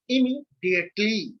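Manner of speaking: "immediately" broken into separate parts; pronounced separately. Shown as a demonstration. Teacher showing how words break into phonemes, "immediately" in separated parts. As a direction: say "immediately" piece by piece, with small gaps. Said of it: "we can pronounce separately".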